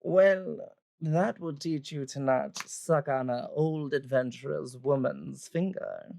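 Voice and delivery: lightly voiced chiding older woman; mildly reproving character voice; scolding old adventurer woman. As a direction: primly teach them a lesson.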